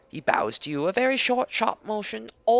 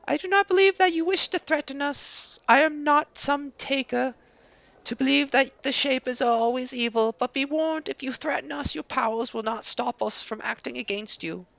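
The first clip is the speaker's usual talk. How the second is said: a higher, wary villager voice, firm at the end; guarded villager warning; 4 semitones higher than usual. Acted. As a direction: warn the stranger calmly but firmly. Another NPC warns player.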